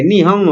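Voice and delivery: "নিহঙ্গ" with the g softened into an ng sound; light g. Shown as a demonstration. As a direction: let the g in "নিহঙ্গ" almost melt away. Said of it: "জি এর উচ্চারণ ওরা হালকা করে".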